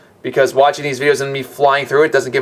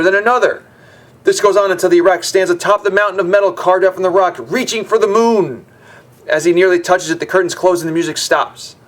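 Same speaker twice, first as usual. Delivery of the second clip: animated storybook read-aloud, lively phrasing; story narration; 3 semitones higher than usual. A narrator's reading. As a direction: read it out like a stage tale.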